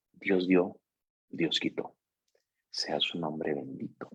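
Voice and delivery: a grieving wife whispering Job's words to her husband; whispered faith. Retold or imitated. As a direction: breathe the blessing out as a hushed prayer. Wife squeezes hand, quotes Job.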